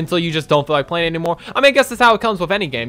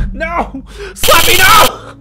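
mock pleading; 13 semitones higher, 8 dB louder, much slower than usual. Pleading against slapping.

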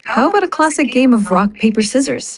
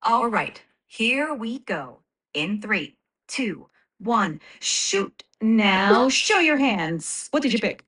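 sportscaster countdown; 4 dB quieter than usual. Pretend. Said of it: "sound like a sportscaster".

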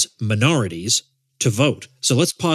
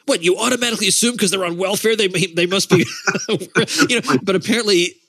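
sarcastic; 5 semitones higher than usual. Pretend. Mock-outraged rhetorical questions.

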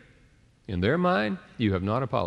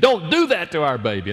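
retold cry to stop; 6 semitones higher, 7 dB louder than usual. Mother grabbing baby from angry husband.

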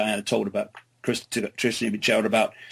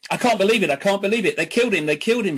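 raised, mildly tearful retelling of a sob; retold sobbing; 7 semitones higher, much faster than usual. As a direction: quote her distress with a touch of tears, not a real cry. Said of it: "she sobbed".

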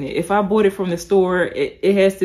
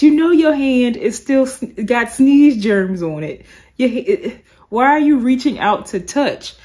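raised, louder mock telling-off of a stranger; exasperated scolding; 3 semitones higher, 5 dB louder than usual. Vlogger talks back to the church lady, exasperated and loud. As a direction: talk back to her like she crossed a line.

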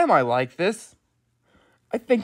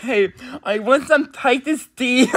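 light mock British accent; a casual stab at a British accent; 3 semitones higher than usual. Imagining a British person asking for tea, mock British accent. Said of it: "something a British person would say".

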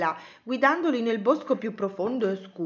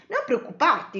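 raised-pitch, lightly acted comfort; reassuring; 6 semitones higher, 3 dB louder than usual. Cosmo answers worried Betty, reassuring. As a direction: soothe a worried friend in a higher voice.

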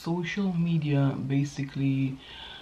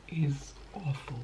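whispered; 7 dB quieter than usual. Real, not acted. Remark on overconsumption.

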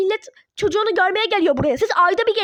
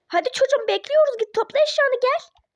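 higher, pressing command; impatient order; 6 semitones higher than usual. Acted. Parent impatiently ordering daughter to pack. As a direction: hurry her up, losing patience.

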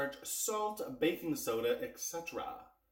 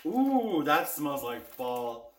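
delighted; 4 dB louder, much slower than usual. Real, not acted. Sniffs freshly opened cookies.

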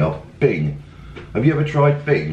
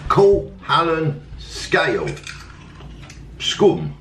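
slow, higher-pitched mock Swedish accent; 6 semitones higher, slower than usual. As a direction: read the product name out in a put-on Swedish accent. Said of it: "did you like my Swedish accent bit".

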